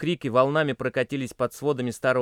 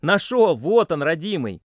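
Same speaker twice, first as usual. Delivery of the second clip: much higher, louder delighted shout, then slower; joyful cry; 6 semitones higher, 8 dB louder, slower than usual. A narrator's reading. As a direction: burst out in relief at finding it. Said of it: "радостный возглас".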